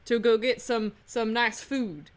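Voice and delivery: playful New Orleans drawl; New Orleans accent. Shown as a demonstration. Player improvising about etouffee, New Orleans accent. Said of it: "I can do one from New Orleans".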